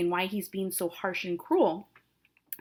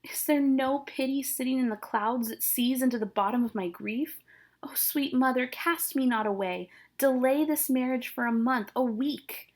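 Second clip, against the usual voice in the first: higher-pitched voice of a pleading daughter; dramatic verse reading, pitched up and imploring; Juliet; 4 semitones higher than usual. Acted. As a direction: plead for mercy in a lightly acted girl's part.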